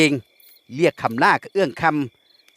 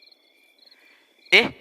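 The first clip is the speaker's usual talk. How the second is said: feigned puzzlement; 2 semitones higher, much slower than usual. A narrator's reading. Duan fakes confusion to his captor, mock puzzled. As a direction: play it as put-on surprise. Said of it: "ทำเสียงดังเหมือนคนรู้สึกฉงนฉงาย".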